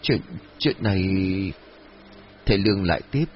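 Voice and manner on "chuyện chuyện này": halting, broken-off start, words stuck; nervous stammer, trailing off. A narrator's reading. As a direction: stumble over the words, unable to go on. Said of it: "lắp bắp nói không thành câu".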